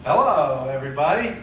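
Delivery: loud stage greeting. Pretend. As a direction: announce it loudly to the crowd. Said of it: "read what's on those cards nice and loud".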